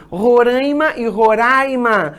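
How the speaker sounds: slow "Roraima" nasal "rãi", then open "rai"; two pronunciations contrasted. Shown as a demonstration. Teacher recalls the text's example, contrasting both variants slowly. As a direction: say "Roraima" both ways, drawn out. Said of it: "aquele exemplo que ele deu".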